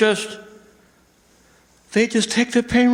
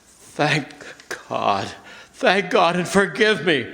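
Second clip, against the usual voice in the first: relieved hush; 4 semitones lower, 3 dB quieter than usual. Acted. Mac's hushed relief and remorse.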